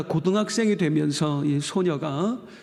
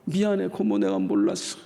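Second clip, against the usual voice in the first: tearful apology. Retold or imitated. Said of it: "펑펑 우는데".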